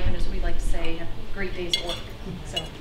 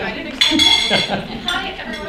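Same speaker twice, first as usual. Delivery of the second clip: talking through a mouthful; words round a bite of food; mouth full; 9 semitones higher, 7 dB louder than usual. Real, not acted. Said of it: "with your mouth full".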